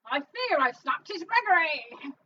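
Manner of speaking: put-on Cockney reading; Cockney accent. Shown as a demonstration. Co-host rereading the line on request, Cockney accent. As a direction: read it like a Cockney. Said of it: "And now in Cockney".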